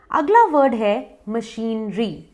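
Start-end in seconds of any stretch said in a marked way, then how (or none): 1.3-2.2 मशीनरी as "muh-sheen-ree"; slow, split syllables in मशीनरी, long ee; correct pronunciation. Shown as a demonstration. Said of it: "correct pronunciation है". (मशीनरी को "मशीन-री" बोलें)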